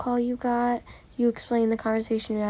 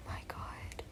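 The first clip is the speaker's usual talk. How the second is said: whispered exasperation; 19 dB quieter than usual. Acted. Exasperated aside.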